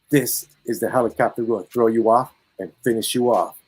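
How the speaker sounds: flat, straight-faced menace; deadpan threat. Retold or imitated. Narrator pranks friend in helicopter, deadpan threat. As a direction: deliver it deadpan, no smile. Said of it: "I said that with a straight face".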